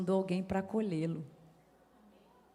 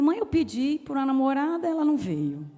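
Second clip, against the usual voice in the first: higher, louder complaint that slows to a halt; anguished son; 5 semitones higher, 5 dB louder than usual. Retold or imitated. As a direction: pour out the grievances, then falter. Son listing unanswered prayers.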